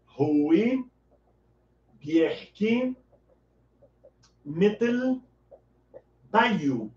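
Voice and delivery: "Rui Bierki Metel Bayu" word by word with long pauses between; slow Arabic demo. Shown as a demonstration. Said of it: "Você vai dizer".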